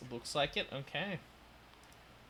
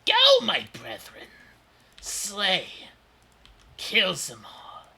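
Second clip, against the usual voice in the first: high, loud monster screech; shrieking war cry; 9 semitones higher, 13 dB louder, slower than usual. Acted. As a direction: scream the order to attack. Monster commands its brood.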